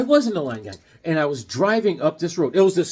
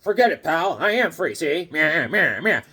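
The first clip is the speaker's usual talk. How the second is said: a hint of a nineteen thirties hood; mock gangster brush-off; lightly voiced tough gangster. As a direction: sneer it like a movie gangster. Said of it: "And he goes".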